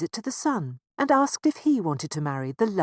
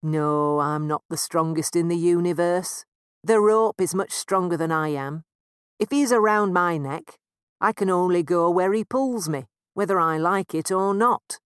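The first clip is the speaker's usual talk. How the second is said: sad buffalo; 6 dB louder than usual. Acted. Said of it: "The buffalo sadly shook his head".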